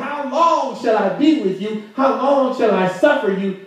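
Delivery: mildly hammed-up impatience; Jesus with an attitude. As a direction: demand it like your patience is gone. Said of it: "sounds like Jesus got a toot on him".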